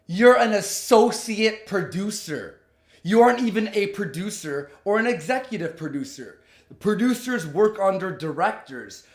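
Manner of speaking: emphatic, indignant dressing-down; punchy, contemptuous rant; scornful telling-off. Acted. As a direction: put the braggart in their place. Acted telling-off after "You ready for this?.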